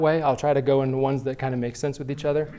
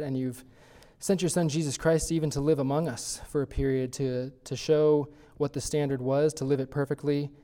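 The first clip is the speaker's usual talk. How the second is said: public prayer. Acted. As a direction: address God sincerely in prayer. Leads the closing prayer.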